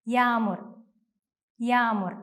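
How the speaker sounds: യാമുർ with a long first a, g silent; lengthened vowel. Shown as a demonstration. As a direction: stretch the vowel in യാമുർ, "yaa-mur". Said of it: "നീട്ടി ഉച്ചരിക്കുകയാണ് വേണ്ടത്".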